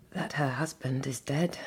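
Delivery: soft hushed whisper. Acted. Marian whispering to Walter about the death. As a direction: confide it under breath.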